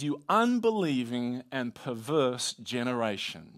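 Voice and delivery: mild exasperation, slow and weighted on UNBELIEVING; frustrated Jesus. Acted. Jesus rebuking a faithless generation, mildly frustrated. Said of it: "Jesus is clearly frustrated".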